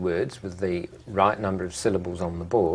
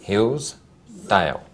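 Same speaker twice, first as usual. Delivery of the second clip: Hillsdale drawn out slowly, each syllable apart; teacher spelling out Hillsdale slowly; slow syllable demo; much slower than usual. Shown as a demonstration. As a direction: stretch out Hillsdale so every syllable is heard. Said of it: "And Hillsdale?".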